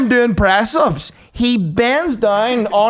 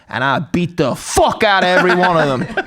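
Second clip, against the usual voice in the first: rising volume. Retold or imitated. Coach boasting in his gym as his volume climbs, mock bravado. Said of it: "his audio level keeps going up".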